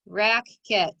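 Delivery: "racket" split into rack, then ket, with a gap; syllable by syllable. Shown as a demonstration. Teacher breaking the code for pupils, syllable by syllable. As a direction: say "racket" slowly in two separate syllables. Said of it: "Say it fast".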